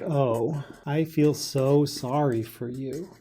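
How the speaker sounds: slow, drawn-out sympathy; mildly acted, slow pitying condolence; sympathetic. Distancing yourself with sympathy from someone's experience, slow and sympathetic. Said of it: "That's what sympathy sounds like".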